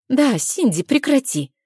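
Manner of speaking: playful scold. Acted.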